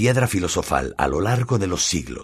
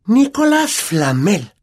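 slow, high, dramatic reveal; hammy stage actor delivery; theatrical whisper; 13 semitones higher, 6 dB louder, slower than usual. Acted. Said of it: "susurró con tono teatral". (susurro teatral)

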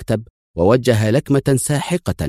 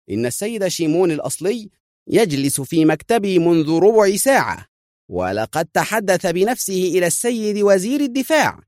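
fierce; 10 semitones higher than usual. A narrator's reading. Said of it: "في شراسة".

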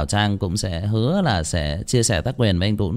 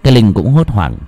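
tense narrator voice; story narration; 6 dB louder than usual. A narrator's reading. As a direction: keep suspense in the read.

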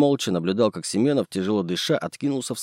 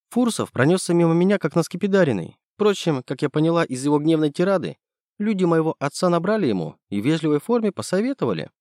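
put-on lightly raised girl's voice for Nastya; young woman voice; 8 semitones higher than usual. Nastya telling Andrey about Fursov, lightly higher female voice.

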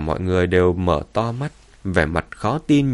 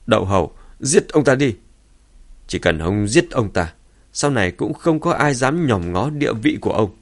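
raised, goading voice; loud urging; 3 semitones higher than usual. Acted. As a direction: egg him on loudly to kill. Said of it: "Thái Hiền lớn giọng nói".

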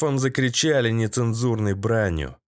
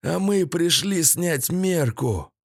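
high, slow character voice; higher, drawn-out villain's voice; captive's confession; 6 semitones higher, slower than usual. A narrator's reading. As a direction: confess slowly in a raised voice. Captive confesses to his captor.

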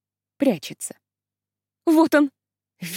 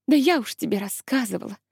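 usual speaking voice

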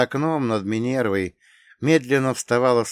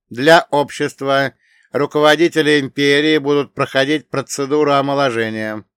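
solemn AI voice; 6 semitones higher, 9 dB louder than usual. Acted. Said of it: "продолжил Ц Б А".

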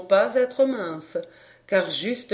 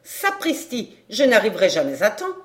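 dismayed outburst; 3 dB louder than usual. Acted. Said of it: "s'écria la sorcière".

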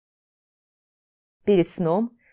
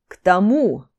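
loud, forceful hiss; 5 dB louder, slower than usual. A narrator's reading. Орон hisses back at his teacher, meant not to be overheard. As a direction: hiss it at him pointedly. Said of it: "зашипел Орон".

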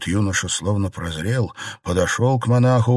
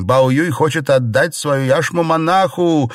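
high, loud alarmed cry; alarmed shout; 7 semitones higher, 5 dB louder than usual. A narrator's reading. Xiren shouting that Bao Yu gives away the jade. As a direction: raise the alarm. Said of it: "закричала Сижень".

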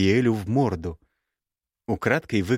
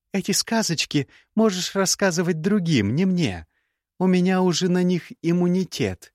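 put-on young woman's voice pitched higher, cool and cutting; higher, cool scornful young woman; Gerda's voice; 8 semitones higher than usual. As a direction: play the proud, scornful ex-bride. Gerda scolds.

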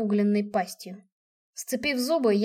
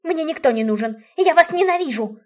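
building to a loud, higher scream; aunt yelling at the whole family; raging; 4 semitones higher, 6 dB louder than usual. A narrator's reading. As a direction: explode on the last words.

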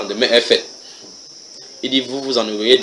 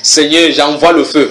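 fiery prayer; 4 semitones higher, 4 dB louder, slower than usual. Acted. Acting out midnight prayer warfare.

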